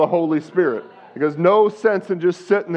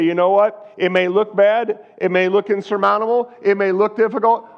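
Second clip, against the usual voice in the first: firm faith; slower than usual. Retold or imitated. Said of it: "you point it in the devil's face".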